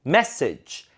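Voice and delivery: message as "MESS-ij"; weakened second vowel. Shown as a demonstration. Teacher modelling after the rule, message with weak ending. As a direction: stress the start of message, reduce the end. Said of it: "으로 약화시켜".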